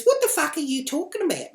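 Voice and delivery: loud, high-pitched mock outrage; angry challenge. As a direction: imitate an irate woman shouting back. Woman shouting back in acted quarrel.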